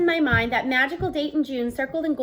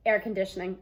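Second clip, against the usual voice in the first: tight-lipped; 6 semitones lower, 4 dB quieter than usual. Acted. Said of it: "I supply tight-lipped".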